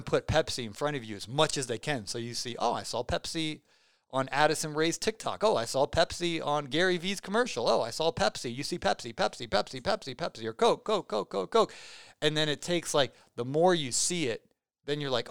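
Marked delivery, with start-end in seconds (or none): 5.4-11.7 imitating a consumer. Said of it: "if someone's selling Pepsi".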